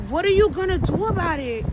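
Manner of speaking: hammed-up distraught question; put-on distressed damsel. Shown as a demonstration. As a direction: ask helplessly, as a mock damsel in distress. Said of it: "like, damsel in distress".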